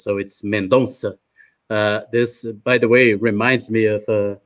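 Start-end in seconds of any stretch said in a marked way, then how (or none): 0.4-1.1 "Mendonça" with the ç said as a crisp double S, men-DON-sa; Portuguese pronunciation. Shown as a demonstration. Host teaching the audience the speaker's name, careful Portuguese pronunciation. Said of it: "the C with an accent is pronounced like a double S in Portuguese".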